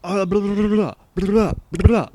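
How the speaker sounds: high, loud, frantic babbling; panicked apology. Retold or imitated. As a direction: blurt out a flustered sorry to the master. Panicked overslept apology to master.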